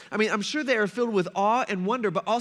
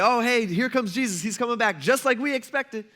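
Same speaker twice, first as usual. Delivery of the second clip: lightly acted eager crowd, higher pitch; mock excited greeting; 3 semitones higher than usual. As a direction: play the welcoming onlookers, a bit excited. Crowd greeting the returning Jesus.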